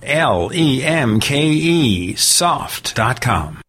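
measured, clearly articulated radio sponsor read. Acted. Host pitching Graphic Converter to radio listeners, polished ad read. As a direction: sell it, slowing right down for the web address.

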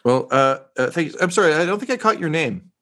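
eager, pleased to be praised; reporter voice. Acted. Reporter NPC talks about network.

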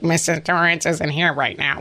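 a hint of a creepy child; lightly voiced eerie kid; Shining kid. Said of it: "the little kid from The Shining is like".

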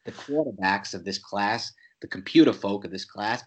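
put-on a weak, half-hearted Boston accent. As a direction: try a Boston accent and miss. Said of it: "that's a terrible Boston accent".

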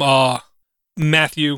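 ordinary talk, nothing marked

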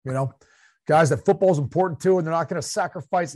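a hint of a twangy Southern coach at the podium; lightly voiced coach giving a press conference; mild imitation of a football coach at the mic; Jay Gruden coach voice. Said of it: "I went to a coach voice here".

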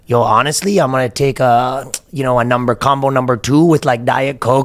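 lightly put-on rapper's accent; a hint of a rapper's Toronto accent. Shown as a demonstration. Ordering a combo so it sounds hard, in a rapper's accent. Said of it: "then the rapper one is like".

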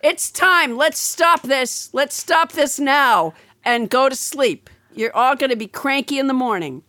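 a mild mother calling lights out; tired mom voice. Retold or imitated. Mother ending a slumber party.

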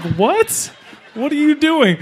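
panicking in the back of a speeding cop car; alarmed. Retold or imitated. Kid yelps as the cop guns it through Queens. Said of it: "It's like".

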